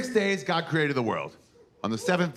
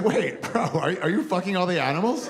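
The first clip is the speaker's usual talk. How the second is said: God voice; 7 semitones higher than usual. Acted. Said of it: "And God was like".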